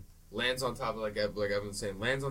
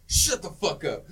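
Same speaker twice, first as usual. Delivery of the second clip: loud, slow, higher shouted order; retold yell; 5 semitones higher, 7 dB louder, slower than usual. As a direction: bark it out slowly and high. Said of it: "he's like".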